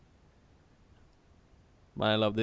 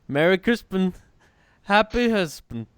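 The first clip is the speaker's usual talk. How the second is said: put-on high, loud, drawn-out girl voice; imitating the mall girl; 8 semitones higher, 8 dB louder than usual. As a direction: squeal it like a giddy girl. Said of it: "that video of the girl".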